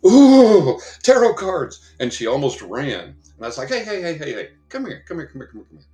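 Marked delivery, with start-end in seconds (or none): 0.1-1.8 very high, loud startled squeal of fear; frightened shriek. Retold or imitated. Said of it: "this lady walked by and she went". 3.7-5.9 high call that fades as she coaxes; calling someone back. Retold or imitated. Calling the fleeing lady back.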